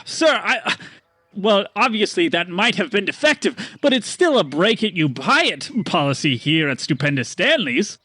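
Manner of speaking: smooth over the blunder, nervous; flustered merchant. Acted. GM voices merchant Stanley.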